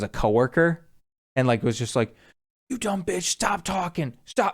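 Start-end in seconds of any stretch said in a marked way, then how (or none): 2.7-4.5 put-on drunk yelling. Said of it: "just yelling at this woman".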